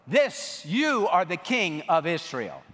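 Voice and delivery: shouted call. Shown as a demonstration. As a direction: call it out to be echoed. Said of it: "You, you just shout after me".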